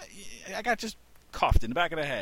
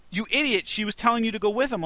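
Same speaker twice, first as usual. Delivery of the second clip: much higher exasperated mother; scolding mom; 10 semitones higher, 4 dB louder than usual. Retold or imitated. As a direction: chide your son as an Italian mom.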